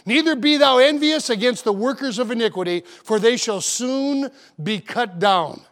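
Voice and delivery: slow, solemn reading of the psalm; scripture reading. Acted. Pastor quoting the psalmist, slow solemn reading. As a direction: read the verse slowly and reverently. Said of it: "the sweet psalmist of Israel says".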